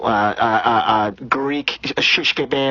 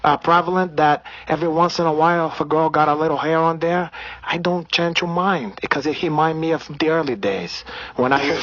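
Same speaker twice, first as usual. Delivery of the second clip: put-on Brazilian accent; 3 semitones higher than usual. Comedian holding a put-on Brazilian accent.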